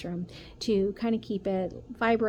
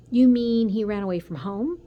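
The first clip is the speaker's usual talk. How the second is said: shocked; 3 semitones higher, 9 dB louder than usual. Acted. Son shocked at news.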